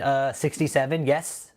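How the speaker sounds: mock sheepish reply to the court, rising at the end; lightly acted witness dodging the thirty million question; imitating Mr. Taylor's answer. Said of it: "That would be his response".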